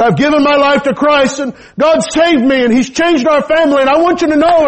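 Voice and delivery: high, teary retelling of dad's vow; retold weeping. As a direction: voice pitched well up as he retells a weeping confession. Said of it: "And my dad began to weep".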